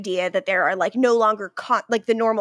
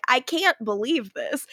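understated disbelief at usual pitch; muted disbelief. Retold or imitated. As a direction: play the disbelief small, no yelling. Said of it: "her disbelief is like".

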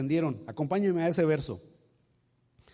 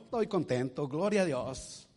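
content praise; 3 dB quieter than usual. Acted. Same believer now content.

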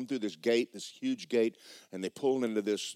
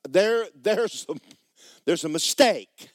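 much higher and louder, slow and insistent; alarmed protest; 8 semitones higher, 10 dB louder, slower than usual. Acted. Girl telling the castle staff there's a mistake, alarmed high cry. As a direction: cry out that it's all wrong.

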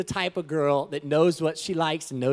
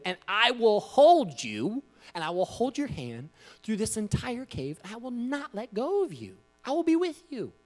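gentle fatherly vow; reassuring dad speech; 7 semitones higher than usual. Retold or imitated. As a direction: soothe her through the dark. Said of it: "Great speech".

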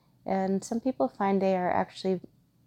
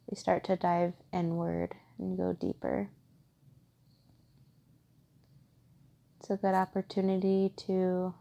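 calm, even meditation guide with long pauses; guided meditation; 3 dB quieter than usual. Acted. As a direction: gently guide listeners inward, steady and unhurried.

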